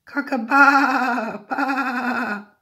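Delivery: loud, high, drawn-out sheep bleat; cockerel's bleating crow. A narrator's reading. Parent reads cockerel trying again, loud bleating. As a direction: crow it like a sheep, with a long wobbly baa. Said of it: "So he tried again".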